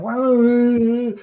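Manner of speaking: high, drawn-out dog-like wail; rising playful "wah" noise; imitated excited dog. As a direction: mimic a dog going crazy with delight. Imitates excited dog going crazy.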